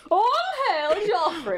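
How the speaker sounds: loud laughing hail; mock royal cheer. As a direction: shout it like a cheering crowd.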